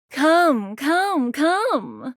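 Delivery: high, drawn-out beckoning. Acted. Character beckons the player seductively.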